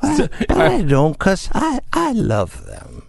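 put-on slurred drunk mumble. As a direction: slur it like you're hammered. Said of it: "even in the drunk voice".

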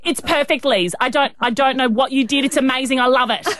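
put-on lightly French-accented gushing mother; a hint of French in adoring praise; French-accented mum. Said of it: "with her French accent".

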